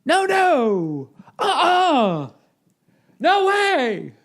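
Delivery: high, strained falsetto refusals; mock refusing singer. Singer squealing no at the crowd. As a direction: squeal the no's like a diva.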